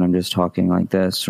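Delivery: low, unvarying demo voice with no emotion; emotionless monotone. Shown as a demonstration. Coach showing a streamer with no emotion, low monotone. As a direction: drain all feeling out, stay on one low note. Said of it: "there's no emotion in my voice".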